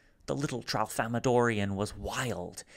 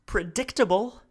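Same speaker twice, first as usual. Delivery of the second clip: high, louder, halting alien voice; speaking haltingly; 11 semitones higher, 6 dB louder than usual. Acted. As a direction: Salo piecing his words together. Salo's voice.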